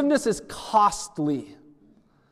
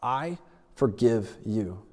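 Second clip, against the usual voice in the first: slow sincere; 9 semitones lower, 4 dB quieter, slower than usual. Shown as a demonstration. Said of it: "have you ever spoken those words".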